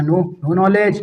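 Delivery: very slow, drawn-out "No, no knowledge"; slow playful no knowledge; mock answer. Shown as a demonstration. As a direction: stretch each word out teasingly. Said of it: "कोई पूछे knowledge, बोल देना".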